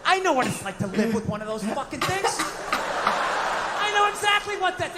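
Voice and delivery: ordinary talk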